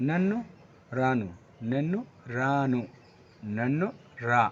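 slow clear Telugu demo of নেন্নু রানু; careful Telugu pronunciation. Shown as a demonstration. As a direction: say নেন্নু রানু slowly, syllable by syllable. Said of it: "আমরা এই যে উচ্চারণটা আছে না".

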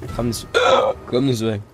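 hiccuping mid-sentence; hiccups. Real, not acted. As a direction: talk through the hiccups. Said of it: "Are you drunk?".

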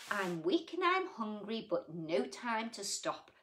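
put-on gentle read-aloud for children; sing-song storybook reading; story reading. A narrator's reading. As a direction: read it like a bedtime picture book. Reads rhyming picture book aloud.

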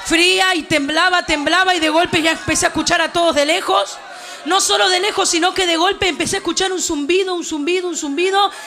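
urgent, projected storytelling; impassioned testimony from the pulpit; forceful preaching testimony. Real, not acted. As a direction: preach the memory with mounting intensity.

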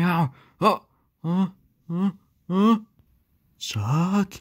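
hiccuping between words; hiccups. Acted. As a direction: speak through hiccups. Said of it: "It's called the hiccups".

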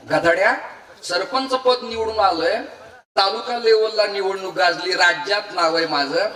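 lightly voiced angry father scolding; a hint of a proud man's rebuke; mock scolding father. Sarpanch father scolds his son for shaming him, mild mock anger. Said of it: "रागावल्यावर".

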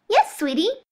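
put-on high, bright little girl; sweet girl voice. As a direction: chirp it sweetly like a child. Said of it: "dropping the fake accent".

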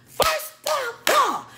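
high, drawn-out first of all with attitude; exaggerated sassy first of all, very slow; hood rat attitude. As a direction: sass him like a neighborhood girl. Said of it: "I turned into this ghetto hood rat".

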